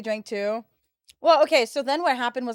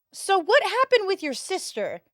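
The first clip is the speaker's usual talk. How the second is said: mock friend voice; 8 semitones higher than usual. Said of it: "her friend turns to me and goes".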